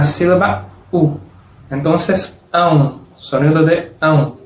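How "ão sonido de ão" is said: each "an" glided into "u", sounding as ão; joined nasal diphthong. Shown as a demonstration. Teacher summing up how to unite both syllables, joined. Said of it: "Hay que unir".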